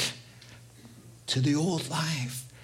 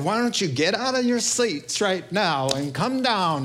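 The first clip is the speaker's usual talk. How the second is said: lightly imitated evangelist's altar call, pitched up; a hammed-up preacher calling people down, slightly raised voice; Billy Graham; 4 semitones higher than usual. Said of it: "when Billy Graham said".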